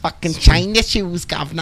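high, hammed-up attempt at English accent; badly faked English "governor" accent. Joking about fame in England, badly faked English accent. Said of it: "Worst accent I've ever heard".

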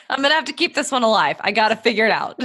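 fast, laughing through the words. Retold or imitated. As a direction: laugh while quoting yourself. Retelling her own plea, laughing.

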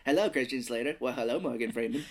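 lightly put-on actor voices, both alike; rough, jokey celebrity impression; same impression voice. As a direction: trade greetings in one amateur star voice. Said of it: "It's the same voice".

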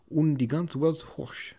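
German landlord cheering the whole world, loud and slow; cried out. A narrator's reading. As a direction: shout it in German, arms up. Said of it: "he cried".

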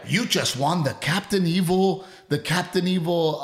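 lightly hammed-up slot machine announcer; game announcer. Slot machine announces a jackpot to the player, mock announcer.

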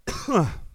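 a dry single cough. Real, not acted. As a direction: cough into the mic. Coughing mid-stream.

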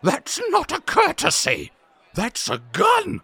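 high, loud alarmed cry; panicked. Acted. Duke panicking at a pistol pointed at him. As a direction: yelp in shock at the gun.

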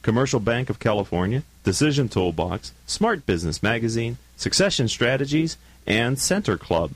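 lively announcer credit read; radio sign-off. Real, not acted. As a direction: read the show credits with bouncing pitch. Reads sponsor credits and sign-off.

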